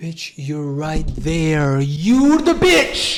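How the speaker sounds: furious outburst, loud and rising in pitch. Reacting to a character hurting her daughter: triggered angry outburst. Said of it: "I'm just triggered".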